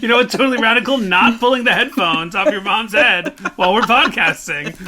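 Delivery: put-on extreme hyped kids ad. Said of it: "do the voice you do for Cooper".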